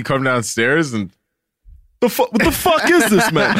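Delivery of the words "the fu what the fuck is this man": high mock yell of a fed-up father; imitating angry dad. Son voicing his dad searching for lids, high mock yell. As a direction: ham up the dad hunting lids.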